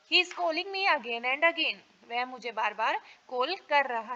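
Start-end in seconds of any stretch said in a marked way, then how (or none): 0.1-1.8 each word spaced out slowly for students; slow, clear classroom dictation. Shown as a demonstration. Teacher dictating model sentence.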